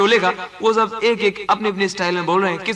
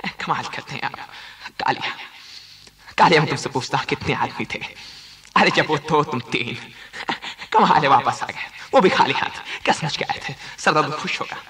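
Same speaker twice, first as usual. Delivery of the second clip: much lower, menacing villain voice; a deep mock Gabbar menace; Gabbar Singh; 7 semitones lower, 3 dB quieter than usual. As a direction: growl it like Gabbar interrogating. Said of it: "Gabbar Singh का role".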